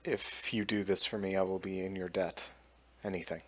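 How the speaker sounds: low, soft in-character pledge; quiet earnest plea. Acted. Villager pledging a debt for help, quiet and earnest. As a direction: say it softly and low, as a solemn promise.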